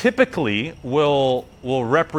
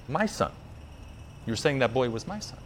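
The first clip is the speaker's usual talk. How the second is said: stunned realization; 11 dB quieter than usual. Acted. Shiva learns boy was his son.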